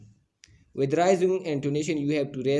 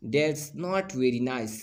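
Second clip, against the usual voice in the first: "That's not very nice" slowly, with a falling tune; falling intonation; much slower than usual. Shown as a demonstration. Teacher demonstrating intonation, slow falling "That's not very nice". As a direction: draw out "That's not very nice" and drop at the end. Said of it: "falling intonation हुआ".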